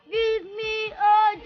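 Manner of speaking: slow, high cheer call; cheerleader. Shown as a demonstration. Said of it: "Contohin dong".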